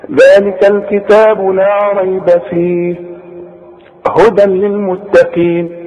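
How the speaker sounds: slow chant running ريب into فيه, then pause; stop after فيه. Shown as a demonstration. Teacher shows the other permitted stop, pausing after فيه. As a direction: recite on through ريب, halt after فيه. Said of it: "ممكن اقف على فيه بس ما اقفش على ريب".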